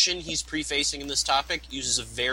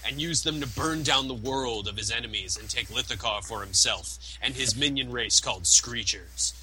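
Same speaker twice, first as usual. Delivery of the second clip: movie announcer voice. Pretend. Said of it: "in my movie announcer voice".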